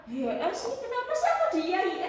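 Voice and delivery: quickening, high protesting quote; retold protest. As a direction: imitate an objection to parents, pitch climbing. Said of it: "sesi kayak protes sama orang tua".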